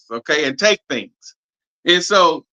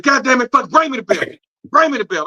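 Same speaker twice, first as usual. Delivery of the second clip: higher, mock furious demand for the belt; retold angry outburst; 8 semitones higher than usual. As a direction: replay the moment you lost your temper. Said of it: "I got so upset".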